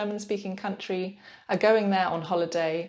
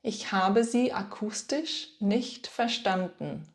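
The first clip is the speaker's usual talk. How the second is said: slow model; slower than usual. Shown as a demonstration. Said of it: "you could say".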